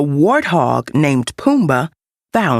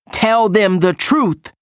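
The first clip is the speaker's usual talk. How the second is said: cried out; 4 semitones higher than usual. Acted. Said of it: "he cried out".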